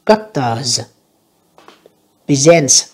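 presents ending in a hissed s; final s sounds. Shown as a demonstration. Teacher showing learners the final s sound. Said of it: "âm S nha các bạn".

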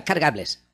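"Clark Gables", misread as a mother-in-law would; mother-in-law's mispronunciation. Retold or imitated. Imitating his late mother-in-law, mispronounced "Clark Gables". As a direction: say "Clark Gables" naively with an added final s. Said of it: "como lo decía, mm, mi suegra".

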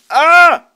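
sudden loud high yelp; jolted scream at the creeper; real startled shriek; scream of fright. Real, not acted. Creeper appears.

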